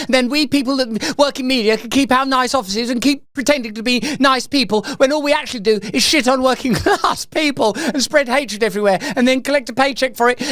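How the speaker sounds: lightly voiced parody of an interviewer; mock interviewer. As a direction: rattle it off as a mocking impersonation. Parodies the interviewer's real motive.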